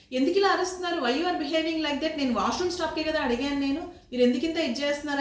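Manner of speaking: replaying her indignant shout at the driver; retold angry yelling. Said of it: "అతని మీద అరుస్తుంటే".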